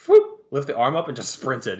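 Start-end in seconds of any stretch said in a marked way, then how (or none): 0.1-0.4 quick "whoop" sound effect; imitated whoosh. Retelling a fan breaking free, imitated whoop. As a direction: mimic a quick escape with a whoop. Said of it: "the guy just went".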